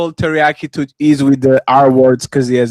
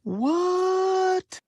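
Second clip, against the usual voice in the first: surprised what; 6 dB quieter than usual. Real, not acted. Host reacts to no rebuttal.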